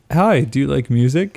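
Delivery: put-on light French accent, friendly. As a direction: ask it with a French lilt. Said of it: "in a French accent".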